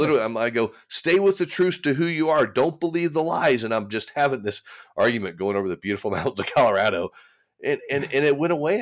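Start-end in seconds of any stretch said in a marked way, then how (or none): 0.9-3.6 higher, urging himself to hold firm; self pep talk. Retold or imitated. Arguing with himself in car.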